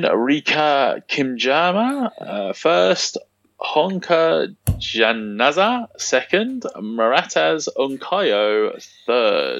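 slow, halting attempts at "Rika Kimjama", "Honka Janaza", "Maratas Unkayo"; butchering unfamiliar names. Real, not acted. Host reading foreign athletes' results, slowly fumbling "Maratas Unkayo". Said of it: "I've just absolutely butchered their names".

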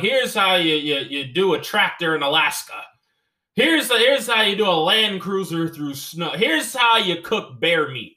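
mock a backwoods tutorial host; hammed-up farmhand video host.

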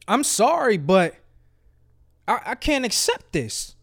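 soft, hesitant apology; respectful refusal. Acted. Job seeker declining the offer to the employer, apologetic. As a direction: turn it down gently and quietly. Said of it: "I respectfully decline".

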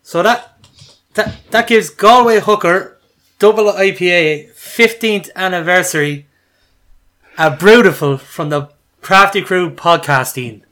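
put-on announcing the beer score to the crew in a Galway accent; Galway accent attempt. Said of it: "get the accent in my head".

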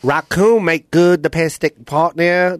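slow Vietnamese accent. Shown as a demonstration. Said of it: "do the difference ... Vietnamese accent".

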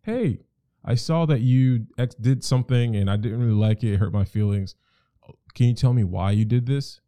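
lightly voiced calm partner; gentle question. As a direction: ask her kindly what happened.

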